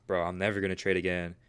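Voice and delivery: understated, composed replay of frustration; calm retelling. Retold or imitated. Trader recalling his vow to quit, calmly. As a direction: retell the outburst in a calm, everyday voice. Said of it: "I wasn't that calm, right? Now I sound calm".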